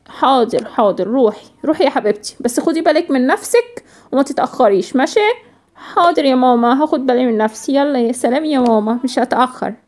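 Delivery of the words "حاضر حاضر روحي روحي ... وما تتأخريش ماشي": gentle mother. Acted. Mother tells Sawsan to go play, gently.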